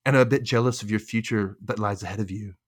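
mildly dramatic, measured delivery; dramatic quote. Retold or imitated. Podcaster quotes Shelby telling Rachel she is proud, mildly dramatic. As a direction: play the heartfelt line with a touch of drama. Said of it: "I don't know why I'm saying it like that".

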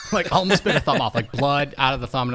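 cracking up mid-sentence; laughing. Real, not acted. Laughing while retelling bite.

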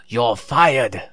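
badly faked, bellowed catchphrase impression. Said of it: "that was a bad impression".

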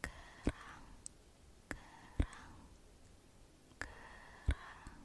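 right in the other ear; whispering in ear. Acted. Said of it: "Sebelahnya ya".

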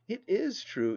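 high-pitched insistence on "is"; interrupting. A narrator's reading. Niece interrupting her aunt to confirm it, insistent. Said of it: "interrupted I".

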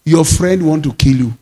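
low, calm divine voice; lightly voiced God reassuring. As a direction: speak as God, steady and sure. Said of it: "I heard his voice".

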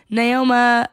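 "Naoma" ending in "ah" by mistake; mispronounced name. Real, not acted. Recapper fumbling a contestant's name, "Naoma" with a wrong final "ah". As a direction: slip up, saying "Naoma" with an "ah" ending. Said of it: "why can't I fucking say her name".

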